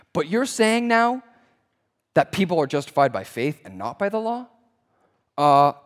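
lightly voiced snarky teen with halting pauses; a hint of teenage snark, questioning and hesitant. Gatekeepers arguing back at Paul, mildly snarky teen. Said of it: "like a snarky teen".

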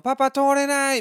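put-on high, childish plea to her dad; little girl. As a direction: squeak it out like a stuck kid. Child stuck at ticket gate. (改札で止められた女の子が父親に訴える、高い子供の声)

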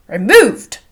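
loud startled exclamation with a swooping pitch; crying out. A narrator's reading. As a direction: burst out in protest. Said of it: "cried Bingley".

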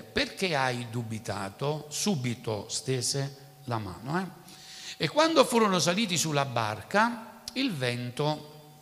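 measured, solemn Bible reading; preacher reading the passage aloud to the church; scripture reading. Acted. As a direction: read the Gospel to the congregation. Reads the Gospel passage aloud.

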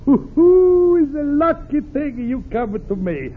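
put-on sly, booming Italian accent of a scheming friend; Italian accent, the crafty pal dropping by. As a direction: Pasquale greets Luigi in a thick Italian accent. Pasquale, Italian accent throughout.

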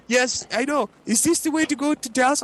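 high, odd confused-driver voice; lost driver. Retold or imitated. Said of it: "And he's like".

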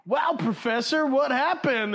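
mock kids calling out in wonder; awed kids. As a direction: gasp it out like dazzled children.

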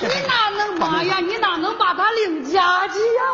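comic lament. Acted. Wife laments the betrayal.

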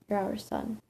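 softly spoken, understated father; quiet. Acted. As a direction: say it quietly, voice dropped. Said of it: "My dad spoke quietly".

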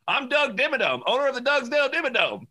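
high hammed-up cartoon tycoon; Doug Dimmadome voice. Explaining the cartoon character to a friend, high tycoon impression. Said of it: "he goes".

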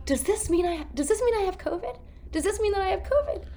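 high, fast, anxious pleading; panicked question. Retold or imitated. Actor asking the compliance guy, panicked and fast. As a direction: rattle it off in a panic. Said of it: "and I go".

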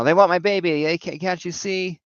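put-on a man losing his mind over his baby; crazy paranoid Ned. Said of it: "he's acting all crazy".

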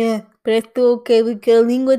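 talking with jaw dropped; mouth hanging open. Shown as a demonstration. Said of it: "estou de boca aberta".

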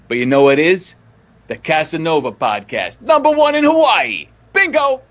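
podcast promo read. Acted. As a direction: sell the show, then punch the tag. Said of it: "what's my thing".

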